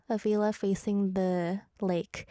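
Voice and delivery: slow, savoring "A villa facing the lake"; dreamy, slow. Shown as a demonstration. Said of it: "That would be really therapeutic".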